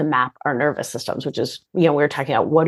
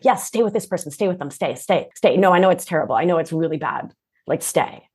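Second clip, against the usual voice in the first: anxious inner voice; faster than usual. Retold or imitated. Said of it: "this loud, anxious voice in my body was like".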